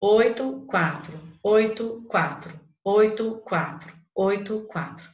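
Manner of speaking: sing-song counting of the verse pattern; rhythmic alternation. Shown as a demonstration. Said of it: "Tá vendo a busca pela perfeição".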